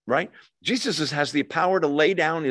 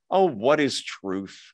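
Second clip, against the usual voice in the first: sarcastic; slower than usual. Retold or imitated. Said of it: "Pilate said sarcastically".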